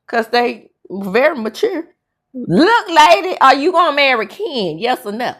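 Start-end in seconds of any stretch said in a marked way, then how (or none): 2.4-5.3 imitating the kids. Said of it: "And so they ask her".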